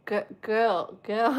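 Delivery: put-on "girl" said with no r, like "gul"; "girl" with the r dropped, childish; can't say r. Shown as a demonstration. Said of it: "I couldn't say my R's, and I'd say".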